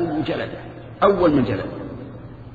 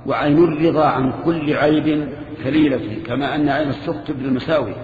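reciting verse. Retold or imitated. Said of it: "كما قال الشاعر".

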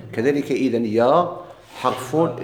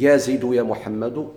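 slow example; slower than usual. Shown as a demonstration. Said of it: "هاد".

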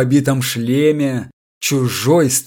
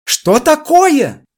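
much higher, slow, woozy voice; drunken bewilderment; 5 dB louder, much slower than usual. A narrator's reading. Drunk electrician lurching toward the paper, woozy question. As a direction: stagger into the question half-drunk.

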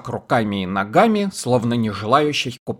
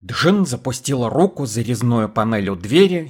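usual speaking voice

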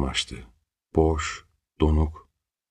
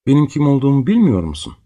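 desperate plea; 8 semitones higher, 6 dB louder, faster than usual. Acted. Desperate father to daughter.

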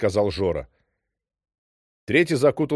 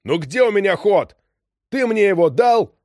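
yelling; 10 semitones higher, 6 dB louder than usual. A narrator's reading. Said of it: "Кэп вдруг заорал на него".

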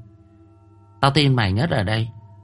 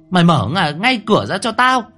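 much higher, louder, stumbling shrill command; shrieking order; 9 semitones higher, 4 dB louder than usual. A narrator's reading. Furious mother shrieking at daughter to open up. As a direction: shriek it with fists on the door. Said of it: "bà ta nói như rít lên".

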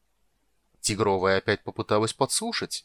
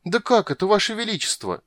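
much higher whiny squeak; whining rat; 11 semitones higher than usual. Acted. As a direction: plead innocence. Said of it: "заныл крысюк".

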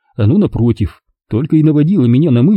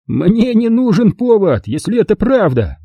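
smug; 10 semitones higher than usual. Acted. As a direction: say it like a clever joke. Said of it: "сказал Курт".

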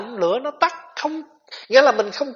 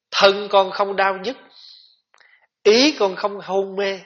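slow, measured recitation with pauses between phrases; verse recitation. A narrator's reading. Monk recites a vow from a chant to the congregation, measured recitation. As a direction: recite each line deliberately, drawing out the words.

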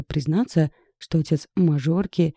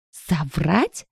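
shrieked question. A narrator's reading. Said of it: "взвизгнула Ирка".

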